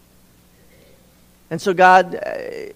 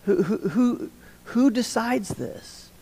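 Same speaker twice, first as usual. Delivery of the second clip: exasperated God; 4 semitones higher, 5 dB quieter than usual. Retold or imitated. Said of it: "a tone of exasperation".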